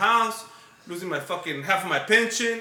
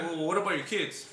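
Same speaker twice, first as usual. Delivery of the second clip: mildly put, softer and unheated; civil; 3 semitones lower, 6 dB quieter than usual. Retold or imitated. Father asks about the kids, retold as civil. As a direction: ask it civilly, without anger. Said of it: "he's real civil".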